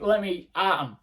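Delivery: Scrappy-Doo eager. Retold or imitated. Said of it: "like proper Scrappy-Doo".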